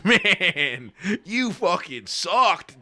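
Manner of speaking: put-on slow, drawn-out drunken jeer; mock slurring yell, stretched out; imitating drunk heckler. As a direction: act out a drunk dad shouting at a comic. Imitating drunk dad heckling comic.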